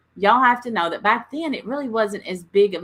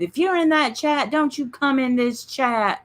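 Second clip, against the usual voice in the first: mocking quote; 6 semitones higher than usual. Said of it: "This stuff that's going on".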